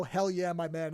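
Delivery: put-on a light, terrible Italian accent; hammy Italian accent, barely put on. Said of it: "in that terrible Italian accent".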